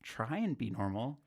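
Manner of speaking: tougher Midwestern guy accent; put-on Midwestern accent, a bit tough; American accent. Shown as a demonstration. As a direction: try a normal-sounding American accent. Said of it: "sound like just a tougher Midwestern guy".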